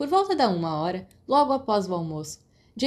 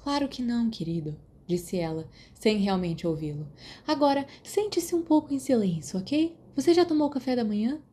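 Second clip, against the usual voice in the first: high, lightly voiced matron soothing a patient; fussy nurse; 4 semitones higher than usual. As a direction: coo without really listening.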